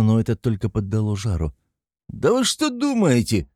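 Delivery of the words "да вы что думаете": high, raised shout. A narrator's reading. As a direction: shout it out indignantly. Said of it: "кричал Разумихин".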